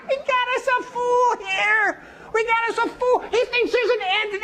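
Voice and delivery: high, cackling wise men scoffing; mocking laughter. Wise men laughing at the young man, high and mocking. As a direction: laugh him off as a fool.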